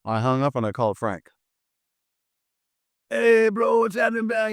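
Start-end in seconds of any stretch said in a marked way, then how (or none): 3.1-4.5 exuberant greeting. Retold or imitated. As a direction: imitate hailing a close pal on the phone. Acts out phone greeting to friend.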